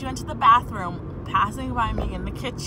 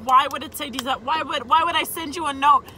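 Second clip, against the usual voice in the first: exasperated; 5 semitones higher, 4 dB louder than usual. Real, not acted. Exasperated inner argument.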